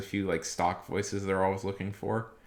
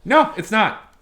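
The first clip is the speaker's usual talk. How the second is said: very high, louder, lisping comic voice; high lisping falsetto; 13 semitones higher, 10 dB louder, slower than usual. Shown as a demonstration. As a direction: lisp every word in a giddy falsetto. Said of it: "speak kinda like this".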